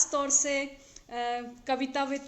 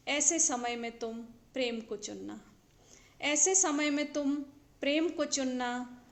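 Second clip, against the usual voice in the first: measured verse reading with pauses between phrases; poetry recitation. Acted. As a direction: recite each line deliberately, letting the endings fall. Recites her own poem.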